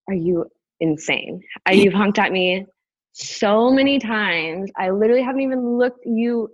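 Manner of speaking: retold fed-up rant; exasperated outburst. Retold outburst at honking driver.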